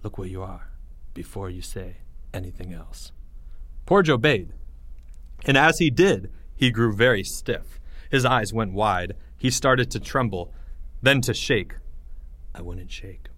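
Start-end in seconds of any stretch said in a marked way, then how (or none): 0.0-3.1 very soft, low warning; hushed voice. Acted. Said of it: "said Greg in a hushed voice". 12.5-13.3 very soft and low; hushed warning. Acted. Greg's hushed warning continues.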